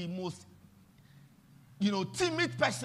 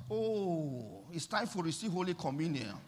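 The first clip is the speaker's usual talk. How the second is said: mock pious voice; 4 semitones lower, 4 dB quieter than usual. Mimicking pious churchgoers.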